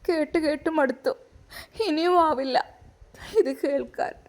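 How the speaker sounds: tearful, voice catching on the words; crying. Acted. Wife crying to her husband, tearful and worn down. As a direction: sob it out, worn down and hurt. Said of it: "Shahina റൂമിൽ പോയി കരയുകയാണ്".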